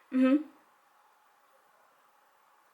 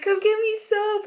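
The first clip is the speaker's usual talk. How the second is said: retold crying plea; 12 semitones higher, 5 dB louder than usual. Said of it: "and I'm like".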